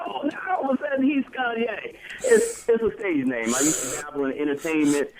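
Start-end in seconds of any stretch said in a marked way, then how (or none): 0.1-1.9 mocking voice. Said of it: "So I always gonna be like".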